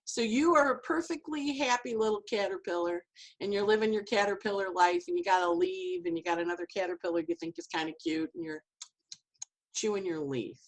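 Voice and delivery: high, lightly dramatized storyteller voice to a caterpillar; hammed-up fairy-tale telling, a touch of it; dramatic storytelling. Telling her clients the caterpillar tale, mildly dramatized. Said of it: "with dramatic interpretation".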